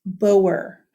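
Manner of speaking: Boer said as "poh-er", firm falling tune; corrected pronunciation. Shown as a demonstration. Teacher insisting on right pronunciation, firm "Boer" as "poh-er".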